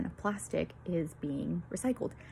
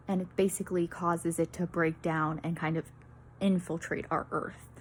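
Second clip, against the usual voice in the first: breathless, short of air; out of breath; 2 semitones lower than usual. Real, not acted. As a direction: talk while winded. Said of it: "like, out of breath".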